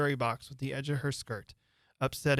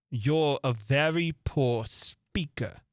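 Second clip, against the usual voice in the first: dry King; much slower than usual. Acted. King mocking the Hatter.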